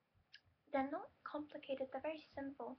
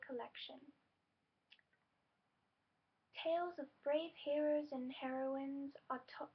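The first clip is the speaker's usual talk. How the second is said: louder storybook read of the blurb; reading aloud a bit loudly. Real, not acted. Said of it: "I had to read it a bit loudly".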